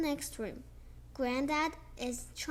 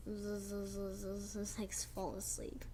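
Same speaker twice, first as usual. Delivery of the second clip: soft, much quieter snoozing sounds; sleepy baby; 7 semitones lower, 11 dB quieter than usual. Pretend. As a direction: trail off like a dozing baby.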